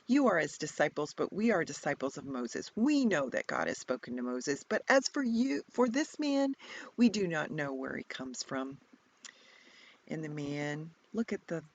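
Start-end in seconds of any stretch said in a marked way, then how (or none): 0.0-8.8 loud, scornful tirade; reviling voices. Acted. Pharisees to the healed man, loud reviling. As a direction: spit contempt at him. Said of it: "So hear their reviling voices".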